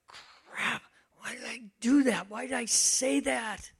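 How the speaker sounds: lightly acted kicking yourself; self-reproach. Quoting own regretful inner voice.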